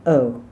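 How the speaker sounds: "Oh" with tongue back, no lips; throat oh. Shown as a demonstration. Coach modelling a throaty oh. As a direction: let "Oh" come from the throat. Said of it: "back of your tongue and your throat".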